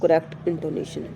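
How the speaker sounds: slow, careful reading of the English text; slow textbook reading. Shown as a demonstration. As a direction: read each word out slowly for the class. Reads textbook task aloud. (धीमी, साफ़ पाठ्य-पुस्तक पढ़ाई)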